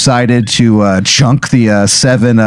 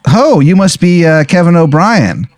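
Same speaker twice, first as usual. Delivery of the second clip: higher, brighter greeting voice; cheerful doctor; 6 semitones higher than usual. Retold or imitated. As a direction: greet the patient like an eager doctor. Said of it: "he goes".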